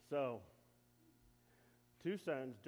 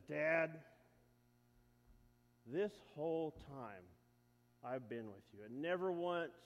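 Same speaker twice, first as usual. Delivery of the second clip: raised, indignant complaint; angry protest; 4 dB louder than usual. Acted. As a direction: let the resentment push each phrase. Angry older brother protests.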